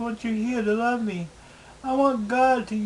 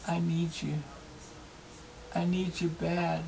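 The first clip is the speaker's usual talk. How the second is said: near tears. Real, not acted. Begging his friend to come live with him, tearfully. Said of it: "The tears in my eyes".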